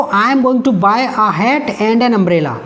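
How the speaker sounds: very slow, word by word reading; slow dictation. Shown as a demonstration. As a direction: read it out slowly for the class. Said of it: "देखो". (धीरे-धीरे पढ़ना)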